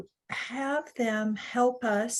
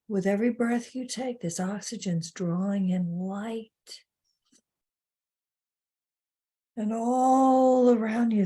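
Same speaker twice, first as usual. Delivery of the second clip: guided meditation. Real, not acted. Webinar host asks listeners to envision light, guided meditation. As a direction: gently guide listeners through breathing in light. Leads a breathing visualization.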